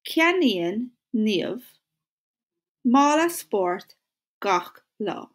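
mála spórt stretched slowly in short chunks; chunked slow model. Shown as a demonstration. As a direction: break it into pieces for the boys to repeat. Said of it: "So will you say it with me".

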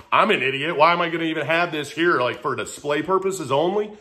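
mildly exasperated self-scolding, retold; retold self-anger. Man taking the rope down, mad at himself, retold mild anger. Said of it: "I was that mad".

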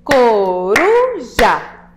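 "Coruja" very slow and loud, split co, ru, ja with the R rolled long; syllable by syllable. Shown as a demonstration. Teacher clapping syllables with pupils, slow split "Coruja" with rolled R. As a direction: beat out each syllable of "Coruja", trilling the middle R. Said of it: "Vamos bater palmas para separar as sílabas?".

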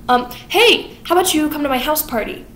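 creepy judge. Retold or imitated. Judge Turpin voiced creepy.

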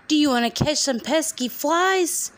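high rooster voice. Acted. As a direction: strut it like a rooster. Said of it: "crowed the rooster".

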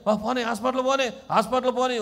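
high-pitched, urgent pleading, lightly acted; mock panicked plea. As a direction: imitate someone hurt begging for help. Acts injured person begging for hospital.

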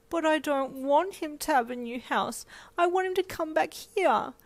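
put-on high pouting little girl; pouting child. Four-year-old pouting at her mum, high and whiny. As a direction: pout it like a small child. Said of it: "you pouted".

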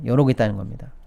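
normal talking voice

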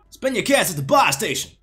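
mock military announcer nagging the player; Graves announcer impression. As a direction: bark the order like the Graves announcer. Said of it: "full parrot mode".

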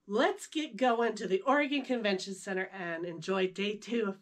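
hoarse, losing her voice. Real, not acted. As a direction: speak through a hoarse, fading voice. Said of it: "I'm losing my voice".

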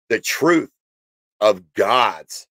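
hiccuping mid-phrase; speaking through hiccups. Real, not acted. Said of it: "excuse me, I got the hiccups now".

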